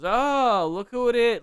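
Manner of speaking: loud, high mock-confrontational call; menacing ambush greeting. Wrestler accosting an old friend in a parking lot, mock menacing. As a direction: pounce on him with a drawn-out "Oh". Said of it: "as if he's gonna, like, like, stab him and mug him".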